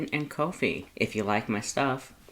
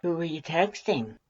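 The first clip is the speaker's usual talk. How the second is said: innocent; 5 semitones higher than usual. A narrator's reading. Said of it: "then innocently asks".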